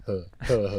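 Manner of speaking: mock a creepy, ominous little laugh; ominous chuckle. Friend imitating the man in the corner, ominous chuckle. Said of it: "He had, like, an ominous".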